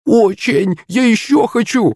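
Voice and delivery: high-pitched, gleeful squeal; happy cry. A narrator's reading. Girl hugging her friend after flying, overjoyed cry. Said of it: "вскрикнула сияющая от счастья".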